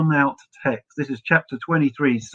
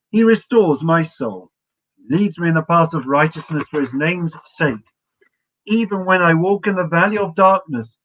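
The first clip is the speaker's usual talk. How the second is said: psalm recitation; 2 semitones higher than usual. Acted. Rabbi leading his students in reading Psalm twenty-three, reverent recitation. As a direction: lift each line like a prayer.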